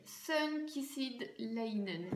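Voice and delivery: slow English with a French accent. Real, not acted. Vlogger reading an English candle name, French-accented English. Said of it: "l'accent anglais du tout".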